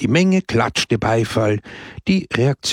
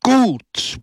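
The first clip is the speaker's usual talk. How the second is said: high, drawn-out shout of approval; crowd's roar; 13 semitones higher, 3 dB louder than usual. A narrator's reading. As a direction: cry out as a whole cheering crowd. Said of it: "brüllte das Volk". (zustimmendes Gebrüll)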